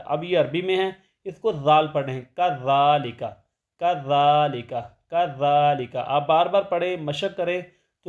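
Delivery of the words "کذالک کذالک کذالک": tajweed dhal drill; correct dhal. Shown as a demonstration. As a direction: say کذالک with the tongue between the teeth. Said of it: "اس کو ذال پڑھتے ہیں".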